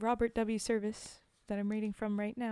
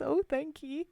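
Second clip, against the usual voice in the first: mock grateful drinker; 4 semitones higher than usual. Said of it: "He says".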